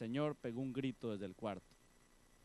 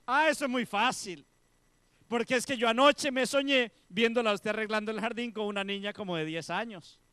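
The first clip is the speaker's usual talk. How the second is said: louder, higher, eager explanation; eager sister; 7 semitones higher, 10 dB louder than usual. Acted. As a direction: explain it brightly and fast. Sister voiced explaining dream.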